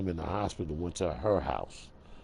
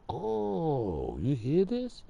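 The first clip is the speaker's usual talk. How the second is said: higher, outraged quote of himself; hammed-up protest at the front desk; retelling his complaint; 9 semitones higher, 3 dB louder than usual. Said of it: "I said".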